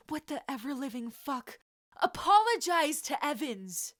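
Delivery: put-on boy roars in fury at his rival, loud and high; roaring. A narrator's reading. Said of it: "he roared".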